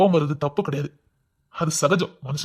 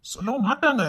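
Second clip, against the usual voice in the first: laughing through tears; 7 semitones higher than usual. Acted. Husband consoling, emotion breaks.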